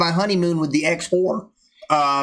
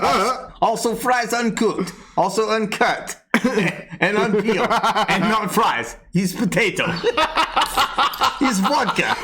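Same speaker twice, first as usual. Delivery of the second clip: put-on Russian accent. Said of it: "the Russian accent".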